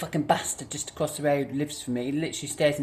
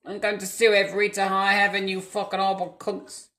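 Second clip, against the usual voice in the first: angry rant; 4 semitones higher than usual. Real, not acted. Ranting at the couriers.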